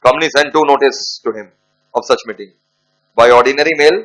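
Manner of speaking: dictating word by word to students; slow dictation. Acted. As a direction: spell it out slowly for the class to write down. Dictating the case facts.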